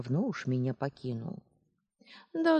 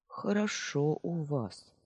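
husky voice; slower than usual. Acted. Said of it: "сиплым голосом проговорила".

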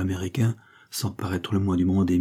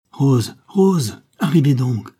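loud, raised-pitch summons; urgent calling out; 6 semitones higher, 7 dB louder, slower than usual. A narrator's reading. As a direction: call the maid from across the house. Mistress urgently calling her maid. (appel pressant, voix forte et haute)

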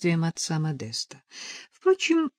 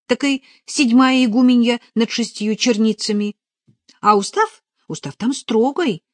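put-on higher, louder girl explaining; lively novice passing on what she knows; eager young novice; 5 semitones higher, 6 dB louder than usual. A narrator's reading. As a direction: explain it keenly in a raised voice. Надежа explains the skete.

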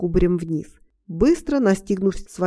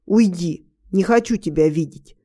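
barked dismissal; 2 semitones lower than usual. Acted. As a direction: snap it out to push her away. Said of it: "рявкнул он на меня".

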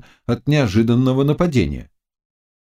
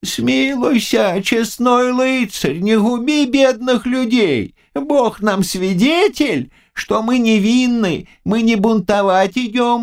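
put-on high, slow, begging old man's voice; pleading old man; 11 semitones higher than usual. A narrator's reading. Old matchmaker begs the knight for mercy, pleading high. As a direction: beg for mercy like a frightened old peasant. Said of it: "начал его умолять".

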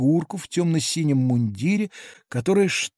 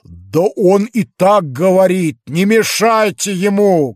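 louder, higher protest; shouting back; 4 semitones higher, 6 dB louder than usual. A narrator's reading. Others shouting at the hecklers, louder. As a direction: call out to hush the hecklers. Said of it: "кричали другие".

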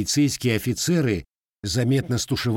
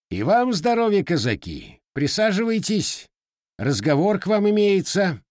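dignified reply; 10 semitones higher, 3 dB louder than usual. Acted. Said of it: "также чинно отозвался Макар Лукич".

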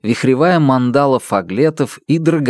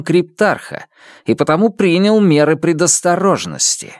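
lightly voiced, rising young accuser; accusing young man; 5 semitones higher than usual. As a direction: press him hard with questions. Isidore explains his precautions.

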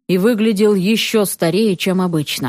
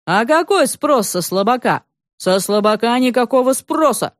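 lightly voiced gruff uncle; 3 semitones higher than usual. Uncle Stas praises, lectures girl.

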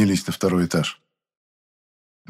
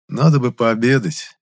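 dreamy. Acted. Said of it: "мечтательно сказал я".

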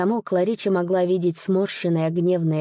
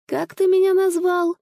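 indignant shout; 11 semitones higher, 4 dB louder than usual. Acted. Insulted old man retorts.

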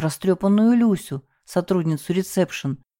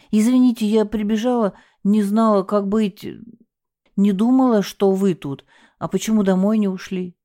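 frightened; 4 semitones higher than usual. Acted. Frightened receptionist.

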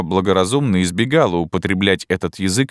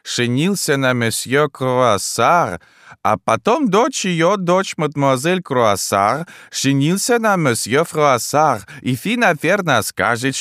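put-on high, slow, broken-Russian old Frenchwoman; a bewildered elderly French wife, high and slow; old Frenchwoman puzzled by her husband; old French lady; 7 semitones higher, slower than usual. Old French lady's lines.

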